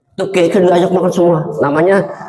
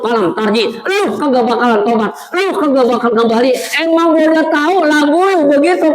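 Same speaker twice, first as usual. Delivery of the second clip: raised, scolding Betawi-style angel; lightly voiced angel scolding the man; mocking angel; 6 semitones higher than usual. Angel scolds the dying man, lightly raised. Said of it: "Kata malaikat".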